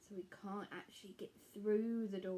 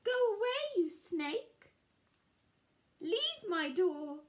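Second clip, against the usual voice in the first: high, loud, frightened cry; panicked shout; 11 semitones higher, 7 dB louder than usual. Acted. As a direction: shoo the snake away in terror. Scared Square shoos snake.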